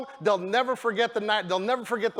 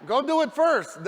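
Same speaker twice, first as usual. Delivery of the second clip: mock urging shout; 4 semitones higher than usual. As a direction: punch it out like a coach shoving them ahead. Urging hesitant recruits to go.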